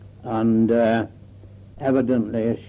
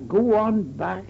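high-pitched imitated call, no real volume; mock-shout a warning across a distance; retold shout back; 8 semitones higher than usual. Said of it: "and he shouted back".

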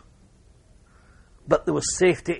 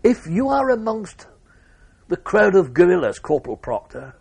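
megaphone call; 6 semitones higher, 6 dB louder than usual. Retold or imitated. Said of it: "I heard a megaphone voice".

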